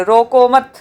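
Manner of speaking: "रोको मत" as one phrase, then stop; "रोको मत" run together, halting after it; said with a pause. Shown as a demonstration. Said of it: "अगर आप उसको विराम देके किसी चीज़ को बोले".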